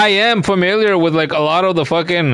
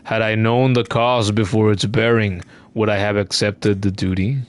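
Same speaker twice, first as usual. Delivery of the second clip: weary NPC voice; 7 semitones lower, 3 dB quieter than usual. Acted. Game elder addressing the pilgrim, lightly voiced and solemn. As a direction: read it as a tired dying elder. Reads game text aloud.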